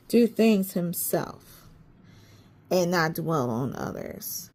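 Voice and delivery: talking with a dry mouth. Real, not acted. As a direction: speak through a parched mouth. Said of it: "I'm still dry mouth now".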